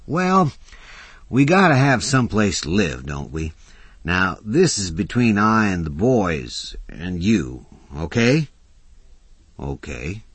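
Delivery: lightly voiced tough guy; rough working man. Mac voiced by narrator.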